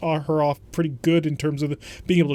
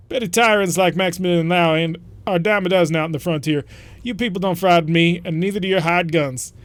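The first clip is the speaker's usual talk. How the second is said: loud brash mercenary; defiant mercenary; 4 dB louder than usual. Acted. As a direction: scoff at them confidently. Voices enemy mercenary leader.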